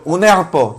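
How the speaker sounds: put-on the child's untrilled R in "herpo"; mispronounced R. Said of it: "yo estaba pronunciando mal". ("herpo" con la erre mal dicha, sin vibrar)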